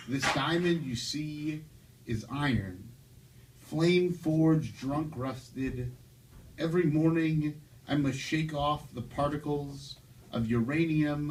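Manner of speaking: measured poem recital with swooping emphasis; spoken-word poet on stage; poetry reading. Acted. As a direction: recite your poem line by line, pausing between phrases. Reads own poem aloud.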